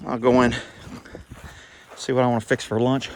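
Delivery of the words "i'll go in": usual speaking voice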